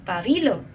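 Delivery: pabilo as pa-BI-lo, middle syllable lifted; stress on second syllable. Shown as a demonstration. Speaker shows own family's way, pa-BI-lo. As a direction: lean on BI in pabilo. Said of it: "I always say".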